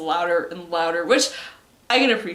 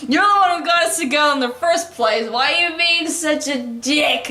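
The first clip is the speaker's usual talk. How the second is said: higher, louder hammed-up reproach; mock angry accusation; 5 semitones higher, 4 dB louder than usual. Girl blaming the one who got them together, mock angry. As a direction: act out an exasperated quarrel.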